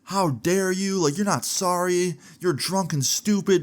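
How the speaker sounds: high-pitched, drawn-out indignant rant; hammed-up high scolding; mock outraged lady. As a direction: imitate an irate woman going in on him. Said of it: "this lady was not having it".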